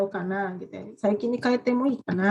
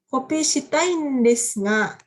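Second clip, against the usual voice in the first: slow example sentence; 2 semitones higher, 4 dB louder, slower than usual. Shown as a demonstration.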